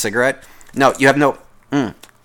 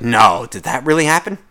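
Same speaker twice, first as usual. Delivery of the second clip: a touch of put-on surprise, rising at the end; mild fake surprise; 2 semitones lower than usual. Listener humoring a coworker's work story, mildly faking surprise. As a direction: ask it like you barely care. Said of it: "people that act surprised".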